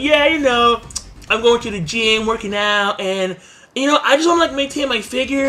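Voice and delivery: big gym guy with a squeaky-high voice; high-pitched voice. Acted. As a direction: imitate a hulking dude talking way up high. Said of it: "the high-pitched voice".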